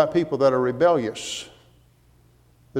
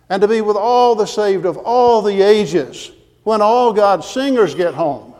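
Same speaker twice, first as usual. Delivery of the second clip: fervent preaching; 4 semitones higher, 4 dB louder than usual. Real, not acted. Preacher tells congregation what being with God means, fervent. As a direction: build through the list, pitched up. Preacher builds a vision of heaven.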